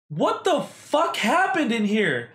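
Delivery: high, loud, slow mock shriek of shock; shocked outburst. Fiance storming into wrecked room, shocked shriek.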